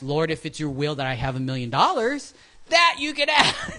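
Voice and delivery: prayer breaking into a laugh; mock prayer. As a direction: pray it half laughing. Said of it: "I do ask".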